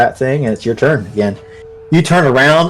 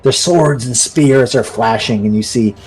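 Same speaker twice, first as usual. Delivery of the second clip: game master narration. Acted. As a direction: paint the battle deliberately, word by word. Game master's scene setting.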